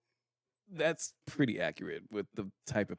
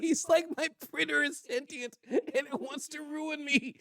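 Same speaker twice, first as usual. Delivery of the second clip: laughing. Acted. Voicing the homie's panic.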